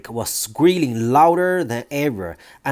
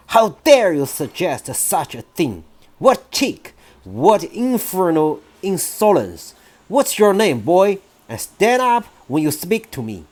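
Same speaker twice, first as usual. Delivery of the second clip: stern headmistress; 5 semitones higher than usual. Acted. Trunchbull scolds the boy.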